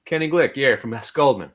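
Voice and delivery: loud, confident phone introduction; brash broker announcing his name and firm; cold-call broker. Shown as a demonstration. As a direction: introduce yourself like a pushy stockbroker. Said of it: "We used to say it fast so people would say it Goldman".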